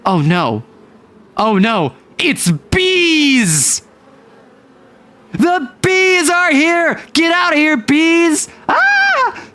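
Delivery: flail at imaginary bees, yelling; mock panic. Bee attack, panic.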